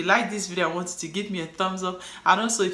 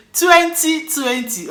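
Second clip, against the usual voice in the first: Nigerian accent; 10 semitones higher, 10 dB louder, much slower than usual. Shown as a demonstration. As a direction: say twenty twenty the Nigerian way, dropping the middle t. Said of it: "But in Nigerian accent".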